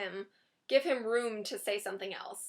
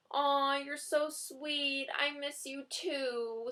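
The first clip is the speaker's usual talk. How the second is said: Jane's sweet reply; 4 semitones higher, much slower than usual. Shown as a demonstration. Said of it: "if you're feeling Jane".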